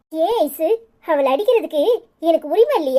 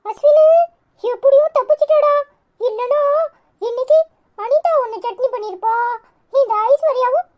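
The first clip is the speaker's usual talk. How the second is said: teasing call; 6 semitones higher than usual. Acted.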